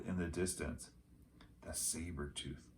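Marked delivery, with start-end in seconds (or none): 1.6-2.7 soft, frightened hush; whisper. A narrator's reading. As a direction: barely breathe the words. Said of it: "whispered Annie".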